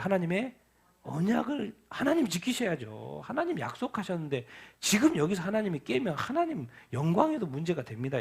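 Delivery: usual speaking voice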